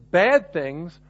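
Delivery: "bad things" set off in ironic scare quotes, leaning on "bad"; slow, ironic "bad things" in air quotes; air-quoted. Shown as a demonstration. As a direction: say "bad things" as if framing it with finger quotes, slowly. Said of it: "I'm gonna put those air quotes up there".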